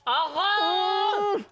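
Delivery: slow pained exhale through the cold; brain freeze. Real, not acted. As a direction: wince through an ice-cream headache. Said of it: "痛い。".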